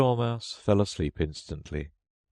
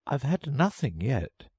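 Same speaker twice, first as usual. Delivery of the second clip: offended; 8 semitones higher than usual. A narrator's reading. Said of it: "in an offended tone".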